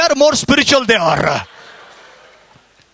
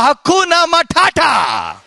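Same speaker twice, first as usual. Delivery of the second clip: exclaimed catchphrase. Real, not acted. Triumphant punchline to scripture quote.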